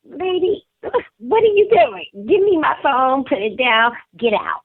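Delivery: high and loud, throwing the woman out; angry confrontation. Retold or imitated.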